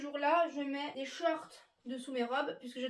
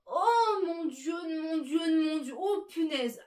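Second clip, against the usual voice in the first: horrified gasp; 3 semitones higher, 6 dB louder, much slower than usual. Acted. Reliving the drunk man's whisper, a loud horrified cry. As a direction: recoil in horror at the whisper. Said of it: "je vous fais la scène".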